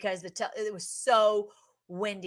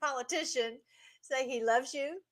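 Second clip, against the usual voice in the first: tearful wonder; 5 semitones higher than usual. Real, not acted. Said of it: "I just finally stopped crying".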